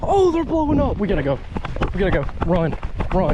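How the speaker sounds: urgent, rushed excitement; hurry, fish are surfacing; excited. Real, not acted. Fish surfacing, rushing to cast.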